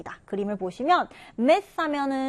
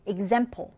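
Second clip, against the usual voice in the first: example with stress on the second syllable, ex-AM-ple; 3 semitones lower, much slower than usual. Shown as a demonstration. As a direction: punch the middle of example. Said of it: "두 번째 음절의 강세를 두고". (example 둘째 음절에 강세)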